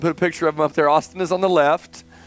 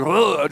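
brief mock retch; a quick "ugh" of vomiting; imitated retching. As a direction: imitate someone throwing up. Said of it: "I hear him just throwing up".

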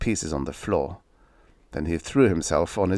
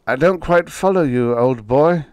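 stammering; 6 semitones higher, 7 dB louder than usual. Acted. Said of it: "Harmer stammered".

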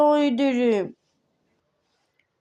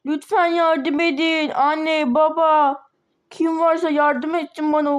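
calling for help; 2 semitones higher, slower than usual. Acted. Locked-in girl calls for help.

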